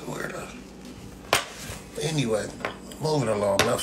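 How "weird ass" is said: muttered insult. Real, not acted. Muttered under breath.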